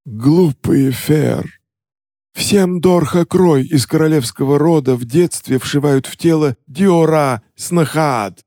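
high, sneering king voice; gloating goblin king. Acted. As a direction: lecture the fools with scorn.

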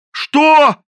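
very high, loud outraged yelp; the captain is called a madman by the cook; outraged shout. A narrator's reading. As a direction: explode in outrage.

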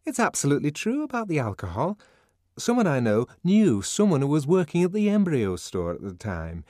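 high, fast, loud gossip; eager gossip. Acted. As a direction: rush out the juicy rumour.

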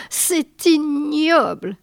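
lent et détaché, plus aigu; détache chaque syllabe de dégoût; articulé. A narrator's reading. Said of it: "articula-t-il". (articulé lentement)

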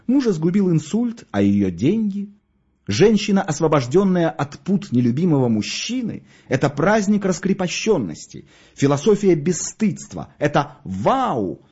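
high, exalted rhapsody; rapturous. A narrator's reading. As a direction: build a grand eulogy to shamelessness, stretching the last exclamation. Gravedigger rhapsodizing about the freed widow.

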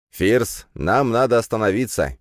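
urgent call to stop the car; sudden urgent call to his brother to stop; sudden shout. Acted. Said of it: "неожиданно прокричал Кирилл".

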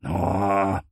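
long drawn-out moan; weak groan of a felled man; pained groan. Acted. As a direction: groan like someone knocked flat. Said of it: "простонал поверженный".

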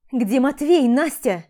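a mother calling out in alarm; urgent demand. Acted. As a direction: demand it loud and frightened. Frightened mother demands son.

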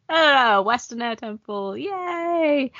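lilting little cheer, rising high on yay; a playful, put-on "yay" of arrival; mock cheer. Mock cheer in a retold scene.

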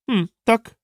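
ordinary delivery

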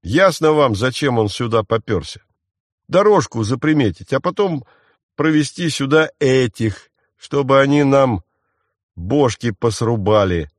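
громче и выше, обвиняя; выпали подозрение на одном дыхании; горячо выпалив. Acted. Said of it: "выпалил Марх". (Марх горячо обвиняет мальчишку)

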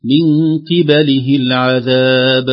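slow, loud chant "من قبله العذاب" with "qi-ba-li-hi"; qibalihi, careful vowels. Shown as a demonstration. Sheikh models the verse, "قبله" as "qibalihi". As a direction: recite "قبله" with i on qaf, a on ba. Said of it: "فننطقها بكسرة القاف وفتح الباء".

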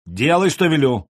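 loud, sharp order; commanding. Acted. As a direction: bark the command. Elder brother orders obedience.

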